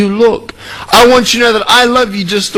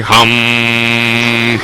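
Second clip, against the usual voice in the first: mock meditation hum; 10 semitones lower, 3 dB quieter than usual. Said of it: "start meditating and going".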